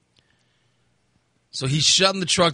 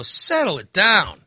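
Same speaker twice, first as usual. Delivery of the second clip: slow, slightly higher retold retort; exasperated rebuke; 4 semitones higher, slower than usual. Driver handing cop his license, mildly exasperated rebuke. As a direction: draw it out in mild exasperation.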